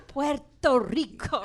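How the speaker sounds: put-on overdone accent on Puerto Rico; Trump. Panelist joining the gripe with an example, mocking overpronunciation. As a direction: roll out Puerto Rico with exaggerated Spanish-style sounds. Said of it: "It's like Trump saying".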